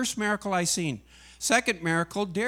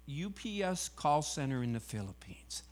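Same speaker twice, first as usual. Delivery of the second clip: whispered punchline; 2 semitones lower, 9 dB quieter than usual. Retold or imitated. Lady's punchline, retold.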